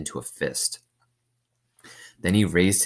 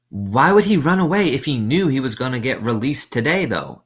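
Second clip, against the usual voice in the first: a lightly voiced counselor, higher and louder; puzzled counselor, a touch raised; character read, raised pitch; Mister Pendanski voice; 7 semitones higher, 5 dB louder than usual. A narrator's reading. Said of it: "asked Mister Pendanski".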